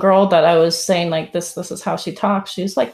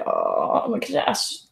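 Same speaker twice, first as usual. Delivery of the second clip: mock Valley Girl; 4 dB quieter than usual. Friend mocking her California crackle, mock Kardashian voice. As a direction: tease her by sounding like a Kardashian. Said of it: "She's like".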